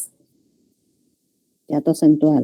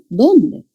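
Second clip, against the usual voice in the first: ¿Dónde? stressed and falling; emphasised question word; 4 semitones higher than usual. Shown as a demonstration. Teacher isolating the stressed question word. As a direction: punch ¿Dónde?. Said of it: "énfasis, ¿no?".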